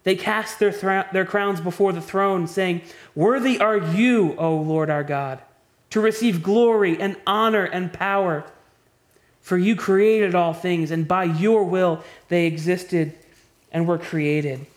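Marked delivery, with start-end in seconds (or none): 3.2-14.7 scripture reading. Acted. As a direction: read it as heavenly praise, unhurried. Reads heavenly worship from scripture.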